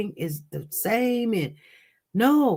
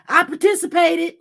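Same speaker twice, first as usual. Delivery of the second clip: mocking the mother; 8 semitones higher, 6 dB louder than usual. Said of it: "Mama, she like".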